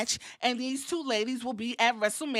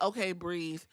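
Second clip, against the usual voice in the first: much lower and softer "okay, breathe"; soothing self-talk; calming quiet; 6 semitones lower, 8 dB quieter than usual. Retold or imitated. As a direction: talk yourself down gently.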